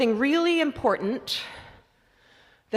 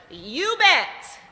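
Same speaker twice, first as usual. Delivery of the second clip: squad response; 5 semitones higher than usual. Shown as a demonstration. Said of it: "and the squad says".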